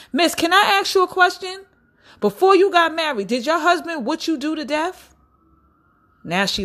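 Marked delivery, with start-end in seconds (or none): 0.1-5.1 high excited question. Pretend. Asking a stranger lady.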